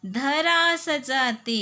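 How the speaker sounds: put-on words drawn out slowly for children; slow and clear. Shown as a demonstration. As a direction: spell it out slowly, word by word. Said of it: "क्या सजाते?".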